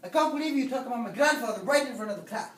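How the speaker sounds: indignant scolding. Acted. Teacher scolds student before class, quick and indignant. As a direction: rush it out, affronted.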